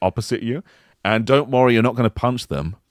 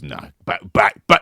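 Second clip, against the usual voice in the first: game voice; 5 dB louder than usual. Retold or imitated. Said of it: "it goes".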